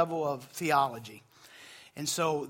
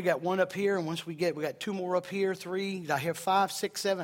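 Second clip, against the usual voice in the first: auctioneer. Pretend. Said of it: "I feel like an auctioneer".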